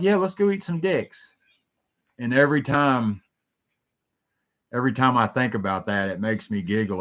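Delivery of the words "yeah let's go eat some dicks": much higher, playful yes; mock eager agreement. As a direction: play along with a grin in the voice. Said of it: "I'm like".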